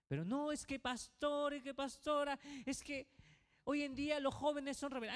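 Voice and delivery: objecting congregant. Retold or imitated. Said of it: "esa frase que dice".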